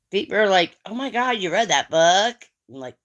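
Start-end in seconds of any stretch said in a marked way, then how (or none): 0.9-2.5 higher-pitched retold amazement; mock astonishment. People reacting to the speaker's reading, mildly astonished. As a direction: imitate people's surprised reaction.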